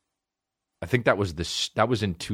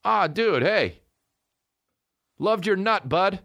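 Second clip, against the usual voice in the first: high drawn-out bro greeting; mock bro voice; 11 semitones higher than usual. Comedian voicing a creepy guy, high and mocking. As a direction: greet him like a sleazy bro. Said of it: "that guy probably doesn't say".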